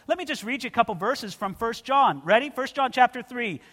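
ordinary talk

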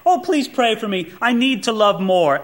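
put-on earnest pleading; mock pious plea. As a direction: imitate a sanctimonious churchgoer's plea. Mock example of vague confession.

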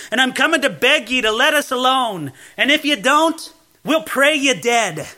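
lightly voiced earnest village woman; poor holy woman. Poor woman appeals to the lord persecuting her village, lightly acted plea. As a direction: make her appeal, building to a firm threat. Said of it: "this is what she said".

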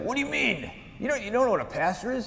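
high-pitched mock indignation; incredulous. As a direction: act out a kid who can't believe the question. Boy indignant at friend's question.

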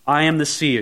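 dignified, measured declaration; very noble. Shown as a demonstration. Samuel revealing himself to Saul, very nobly. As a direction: state it with noble composure. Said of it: "you know, very nobly".

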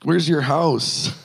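caught off guard. Retold or imitated. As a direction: imitate someone fumbling for a reply, slowly. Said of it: "they're kinda caught off guard by this question".

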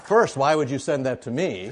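laughing out loud while asking. Real, not acted. Pastor laughing at the dog birthday card, loud laughter. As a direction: crack up at the joke card.

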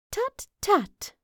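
high-pitched little mouse tutting; scoffing mouse. Acted. Mouse brushing off Vaco's doubt, scoffing.

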